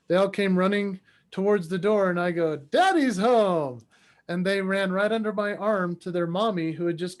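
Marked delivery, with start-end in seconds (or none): 2.6-3.8 drawn-out happy homecoming call; sing-out greeting from the doorway. Retold or imitated. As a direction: announce yourself to the kids, slowly stretched. Father calls out arriving home.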